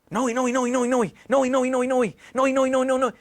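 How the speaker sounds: name repeated without a gap; urgent imitation, insistent repeated name; mild panicked calling. Girlfriend calls him in the dark, mildly panicked.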